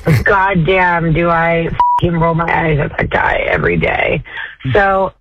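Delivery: ordinary delivery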